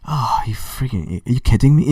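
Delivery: a fed-up Brit losing patience, bad English accent. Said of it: "sorry if I'm doing a bad English accent".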